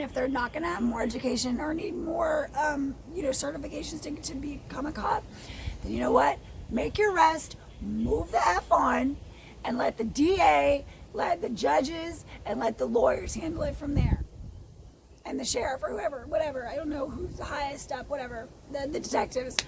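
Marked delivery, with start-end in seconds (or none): 5.8-14.2 angry. Real, not acted. Angry rant at police.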